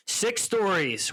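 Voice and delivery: slow, drawn-out "Six stories", savoured; "Six stories" said like a prize finally found; satisfied. Retold or imitated. Elaine finally finding the building, slow satisfaction. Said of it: "with great satisfaction".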